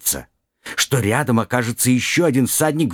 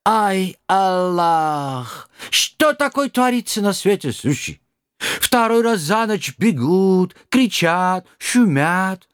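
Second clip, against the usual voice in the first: put-on high, slow old man with Kazakh accent; startled old driver, broken Russian; 8 semitones higher, slower than usual. Driver complains.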